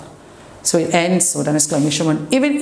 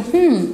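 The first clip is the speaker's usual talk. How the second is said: high, louder musing "hmm"; thoughtful hum; 8 semitones higher, 3 dB louder than usual. Shown as a demonstration. Teacher voices someone thinking how time flies, pondering hum. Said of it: "You're thinking".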